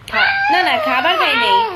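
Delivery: high, loud laughing denial; laughing squeal. Real, not acted. Answering a viewer about dinner with a high laughing squeal.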